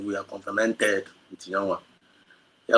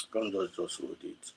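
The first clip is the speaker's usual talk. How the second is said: slow breathy whisper, fighting tears; whispered, holding back; 3 semitones lower, 9 dB quieter, slower than usual. Real, not acted. Speaker trying to hold back tears, whispering. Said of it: "I try to hold it".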